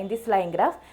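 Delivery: very slow, careful English; model answer, slowly. Shown as a demonstration. Teacher demonstrates the third sentence of the answer, very slow. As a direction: dictate the sample sentence clearly. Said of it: "third ആയിട്ട് എന്താ പറയുക".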